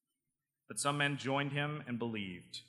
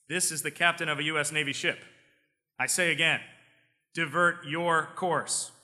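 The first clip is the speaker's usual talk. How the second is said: insist, laying down orders; insistent captain; 4 semitones higher, 4 dB louder than usual. Acted.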